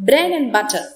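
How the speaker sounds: bread and butter with and cut down to a quick n; elided and. Shown as a demonstration. Teacher showing elision, and reduced to n. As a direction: run bread and butter together as bread n butter. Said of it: "N എന്നാണ് അവിടെ പറഞ്ഞിരിക്കുന്നത്".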